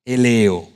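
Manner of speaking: Eleo said slowly as eh-LEH-oh, stress on the middle syllable; Greek word eleo. Shown as a demonstration. Preacher teaching the congregation a Greek word, careful pronunciation. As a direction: spell out Eleo clearly, syllable by syllable. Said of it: "Eso se pronuncia más o menos como eleo".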